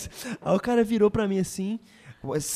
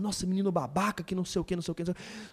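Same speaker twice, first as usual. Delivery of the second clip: mock grumbling; 8 dB quieter, faster than usual. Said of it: "eles estavam resmungando".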